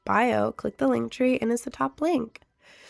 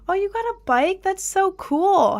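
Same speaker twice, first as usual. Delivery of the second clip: excited; 9 semitones higher than usual. Real, not acted. Reacting to viewer's birthday news.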